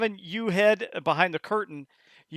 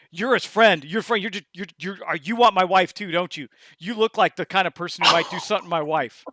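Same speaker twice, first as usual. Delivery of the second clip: paranoid accusation; 4 dB louder than usual. Acted. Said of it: "he starts to look feral".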